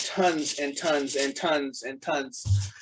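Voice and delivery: "tons and tons and tons and tons" slowly, each "tons" stressed; drawn-out emphatic repetition. Real, not acted. Collector admitting how many crystals she has, each "tons" slowly stressed. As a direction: stretch out every "tons" to pile them up.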